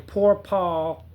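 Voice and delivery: whiny, wounded poor-me voice; mock pity for himself; self-pitying whine. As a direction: moan it like a victim. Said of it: "where I wasn't saying".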